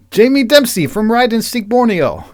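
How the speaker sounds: put-on high-pitched Asian-accented announcement. Newcomer naming their friend, high Asian accent. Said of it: "my Asian accent when I was doing Persis".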